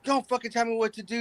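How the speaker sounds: mock drunk outrage; angry retort. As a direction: fire it back, offended. Retelling drunk streamer's angry reply.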